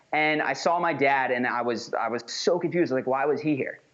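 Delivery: steady, assured finish of the thought; speaking with conviction. Shown as a demonstration. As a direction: keep going firmly through the interruption. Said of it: "but much stronger is".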